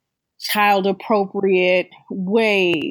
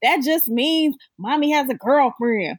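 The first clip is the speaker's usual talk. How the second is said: big sister reassuring; 6 semitones higher than usual. Retold or imitated. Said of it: "And she's like".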